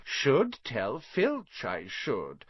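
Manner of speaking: slow, falsely pious; saintly voice. A narrator's reading. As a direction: sound piously concerned. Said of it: "said Peeves in a saintly voice".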